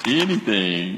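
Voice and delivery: Anything dropped low, said low. Shown as a demonstration. Pastor repeats it for the congregation, low. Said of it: "Say anything".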